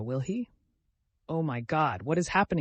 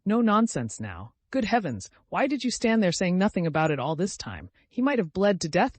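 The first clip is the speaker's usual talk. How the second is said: higher, urgent and alarmed; alarmed girl; 6 semitones higher, 4 dB louder than usual. A narrator's reading. Lise frightened by Alyosha's bleeding finger, higher and urgent. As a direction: rush it out in alarm.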